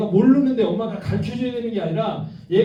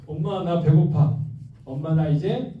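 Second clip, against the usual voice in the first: put-on child's voice; 3 semitones lower, slower than usual. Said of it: "이렇게 얘기합니다".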